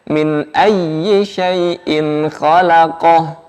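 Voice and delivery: ayyi with a pressed, doubled y; correct recitation. Shown as a demonstration. Teacher models the right way to say ayyi, slowly. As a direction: stress the doubled y in ayyi, slow.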